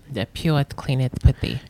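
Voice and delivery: put-on a lightly done Spanish accent. Asked for a Spanish accent, a weak one. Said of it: "Say that again in the Spanish accent".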